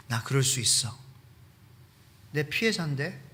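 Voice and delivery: building from grumble to loud indignant yelling; indignant outburst. Acted. Preacher voices an angry offended person.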